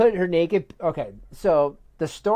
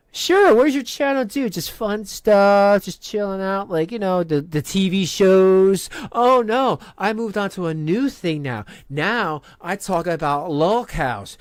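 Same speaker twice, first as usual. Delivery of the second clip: lightly acted chatty parents, pitched up and louder in places; imagined parent chat; 5 semitones higher, 4 dB louder than usual. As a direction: play a mock casual chat between two parents. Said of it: "Can you imagine that conversation?".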